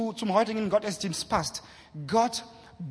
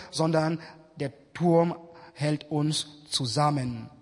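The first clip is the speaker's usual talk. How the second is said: scripture reading; 3 semitones lower than usual. Acted. Preacher reading Genesis to the congregation, measured. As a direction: read the scripture out to the church. Reads Bible text.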